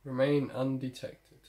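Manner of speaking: slow, deliberate on-screen objective read. Real, not acted. Reads game objective aloud.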